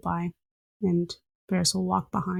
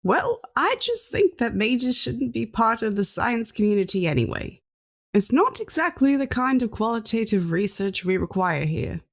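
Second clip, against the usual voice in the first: put-on huffy old scientist; 5 semitones higher than usual. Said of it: "and he goes".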